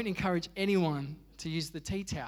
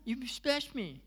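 high, slow whiny complaint; drawn-out high-pitched childish protest; whiny sister; 7 semitones higher, slower than usual. Retold or imitated. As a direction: whine it like an offended little sister. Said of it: "my sister will be like".

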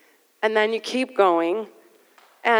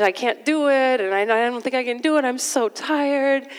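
imitating crying daughter; 3 semitones higher than usual. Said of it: "she's crying".

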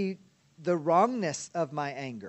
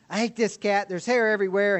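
angry; 3 semitones higher, 5 dB louder than usual. Acted. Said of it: "going ballistic at this cat".

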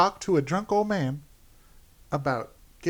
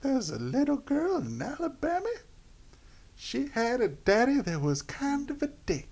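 hammed-up Alabama accent; 6 semitones higher, 6 dB quieter than usual. Madison telling the story of shooting her daddy, Alabama accent. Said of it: "probably a horrible Alabama accent".

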